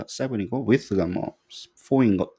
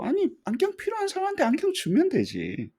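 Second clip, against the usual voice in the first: much higher-pitched, incredulous retort; mock protest. Lecturer voicing the obvious answer about glasses, mock protest. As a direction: argue it as if it were obvious.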